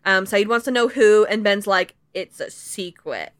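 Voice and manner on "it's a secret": hushed secretive Ben. Retold or imitated. A friend retelling Ben's line in a hushed secretive murmur. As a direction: keep it to yourself, coyly. Ben refusing, retold quote.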